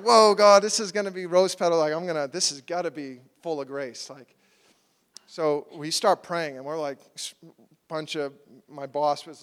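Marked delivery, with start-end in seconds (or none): 0.1-4.1 retold excitement. Preacher recalling his hopes for the fast, excited. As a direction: exclaim in awe, then settle.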